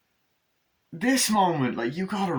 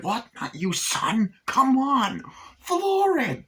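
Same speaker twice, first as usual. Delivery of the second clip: rising high, loud orders; mock urgent yelling; 14 semitones higher, 5 dB louder, slower than usual. Chucky to his son driving, urgent mock yell. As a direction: holler impatiently at the driver. Chucky urges Glenn to speed.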